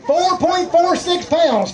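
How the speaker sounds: slow, high, ringing weight announcement; excited announcer call. Real, not acted. Emcee reveals a big one-fish weight, excited announcing. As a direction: draw out every number for the crowd.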